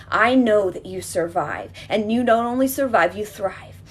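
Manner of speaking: rousing affirmation. Real, not acted. Healer to inner child, loud rousing affirmation. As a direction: lift them up with certainty.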